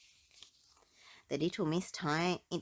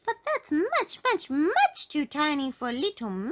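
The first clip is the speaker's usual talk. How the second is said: laughing; 9 semitones higher, 7 dB louder than usual. A narrator's reading. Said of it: "she laughed".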